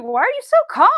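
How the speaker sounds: loud, high-pitched imitation of alarmed disbelief; mock panicky. Wife retells husband's question about the fire, mock panicky. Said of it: "but then he was panicky".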